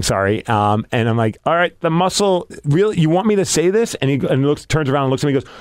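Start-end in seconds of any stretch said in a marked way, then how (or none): 1.5-3.9 higher, hesitant and questioning; doubtful, as if checking they mean it; reluctant. Retold or imitated. Announcer balking at the nickname he was given, reluctant. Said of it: "but say it reluctantly".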